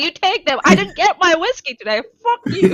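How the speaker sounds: mock angry, high-pitched outburst. Speaker acting out Pele in a retold legend, mock-angry Pele. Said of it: "And then she gets angry".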